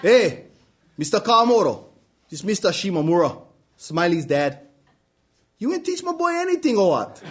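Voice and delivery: dad on the phone, high-pitched and indignant; complaining dad. Acted. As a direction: hound the old teacher down the line.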